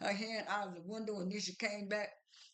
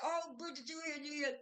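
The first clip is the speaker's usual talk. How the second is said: retold surprised greeting; 6 semitones higher than usual. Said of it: "She said".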